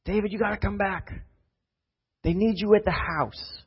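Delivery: high, breathless call to come home; a servant calling urgently from a distance; urgent messenger. Acted. Messenger urging him home.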